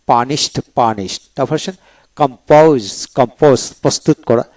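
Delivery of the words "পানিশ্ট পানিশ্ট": পানিশড ending in a "t" sound, "pa-nist". Shown as a demonstration. Teacher showing learners the ed ending: পানিশড said with "t". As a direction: turn the final ড of পানিশড into ট. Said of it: "ট উচ্চারিত হবে ইডিতে ট".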